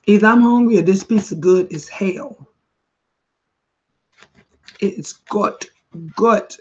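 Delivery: eating while talking; words round a bite of food; mouth full. Real, not acted. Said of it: "talking with my mouth full of food".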